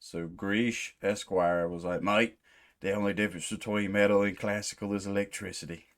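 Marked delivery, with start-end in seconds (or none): 2.0-5.9 a light put-on Australian accent reading a comment. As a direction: read the viewer's comment in a mild Aussie twang. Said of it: "That's how I read it in my head anyway".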